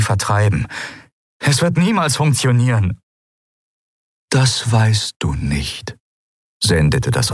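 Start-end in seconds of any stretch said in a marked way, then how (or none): 1.4-3.0 much higher, anxious; Kai, anxious; despairing young man. Acted. 4.3-6.0 slow, calm, otherworldly; Eidolon, serene; calm spirit voice. Acted. Eidolon replies.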